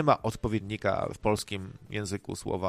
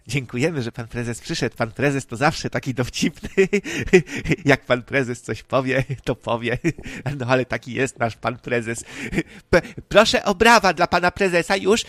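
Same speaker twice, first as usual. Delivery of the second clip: louder, hammed-up bootlicking praise of the boss; mock flattery like MPs fawning on the party chairman; 7 dB louder than usual. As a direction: grovel to the chairman for laughs. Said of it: "Będę się podlizywał panu prezesowi".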